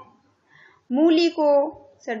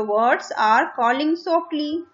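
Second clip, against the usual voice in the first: put-on slow, clear reading to children; slow reading aloud; much slower than usual. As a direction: read each word out slowly for the class. Teacher reading the text slowly.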